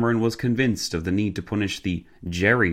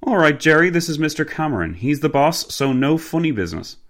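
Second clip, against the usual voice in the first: higher, brisk driver voice; Cockney driver, chummy warning; 8 semitones higher, 4 dB louder than usual. Acted. Driver introducing his boss to his mate Jerry, chummy warning.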